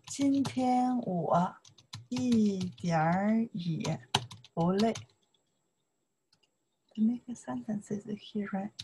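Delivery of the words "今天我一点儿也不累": very slow, soft model reading; slow model sentence. Shown as a demonstration. Teacher modelling a sentence slowly for the class. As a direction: read it out slowly for learners. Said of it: "You can say".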